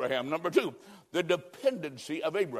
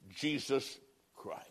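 much softer, falling away low; hushed; 5 semitones lower, 10 dB quieter, slower than usual. Acted. Preacher softly naming Jesus Christ, hushed. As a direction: drop to a near hush on the name. Soft close of appeal.

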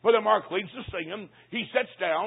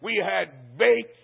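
slow reveal; slower than usual. Retold or imitated. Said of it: "I can't believe a Christian eat any kind of liver".

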